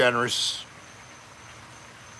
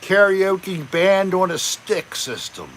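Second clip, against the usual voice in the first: slow, a little condescending; 4 semitones higher than usual. Real, not acted. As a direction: talk down to it a bit. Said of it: "Do I sound a little condescending?".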